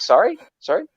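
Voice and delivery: high, shocked double take, mock hurt; can't believe what he just heard; stunned disbelief. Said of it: "I was like".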